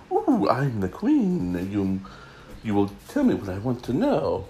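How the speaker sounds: playfully voicing the Queen in a made-up accent; mock royal accent. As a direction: put on a vague, badly done regal accent for the first words. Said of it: "I don't know what accent that was".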